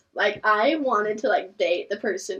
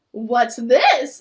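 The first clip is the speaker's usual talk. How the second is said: nervous bad liar; 7 dB louder than usual. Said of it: "In the most unconvincing tone".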